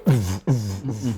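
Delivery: mouthed pulsing bass beat; imitated club thump. Telling of yelling over club music, imitated thump. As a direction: pump out a nightclub rhythm by mouth.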